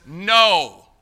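one loud, drawn-out no; emphatic refusal. Acted. God refusing a believer's divided love, emphatic refusal. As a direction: boom out the refusal.

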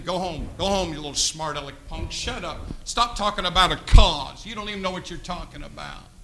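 quiet scornful put-down; scornful jeering. Retold or imitated. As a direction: brush him off low and scornful. Naysayers voiced scornfully.

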